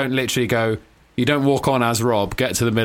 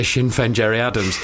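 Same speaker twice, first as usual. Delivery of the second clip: lightly imitated Northern Irish; Northern Irish accent; 2 semitones lower than usual. Host quoting co-host's warm-up phrase, Northern Irish accent. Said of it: "Joel wants to do a Northern Irish accent".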